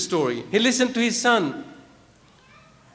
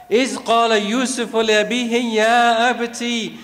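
fast, measured Quranic recitation; quick devotional recital of scripture; much faster than usual. Acted. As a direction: recite the verse in flowing Arabic cadence. Recites verse.

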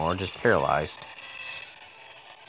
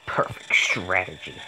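whispered smug boast; whispering. Real, not acted. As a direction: whisper it to yourself.

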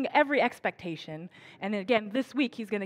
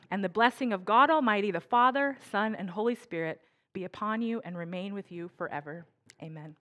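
solemn benediction. Acted. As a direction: pronounce the charge like a blessing. Pastor gives the closing benediction.

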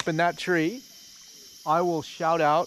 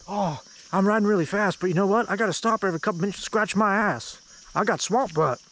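put-on southern accent; 3 semitones higher than usual. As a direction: imitate your buddy in a mistaken southern accent. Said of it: "that's a southern accent".

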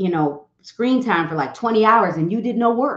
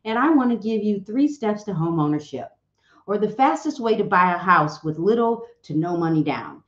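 stiff scripted realtor pitch. Retold or imitated. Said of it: "Do you really talk like this?".

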